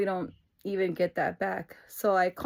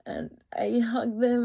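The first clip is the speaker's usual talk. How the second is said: slow, tearful telling; real tearful voice; 3 semitones higher, slower than usual. Real, not acted. Telling how parents were hugged, real tearful voice. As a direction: hold back tears as you say it. Tearing up recalling the hug.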